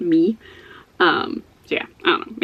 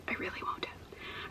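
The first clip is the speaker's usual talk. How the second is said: whisper; 23 dB quieter than usual. Real, not acted. Whispered aside to viewers.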